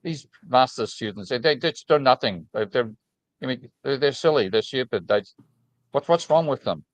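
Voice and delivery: a hint of a dismissive Austrian professor; mock Austrian accent, scornful. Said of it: "my best imitation of an Austrian accent".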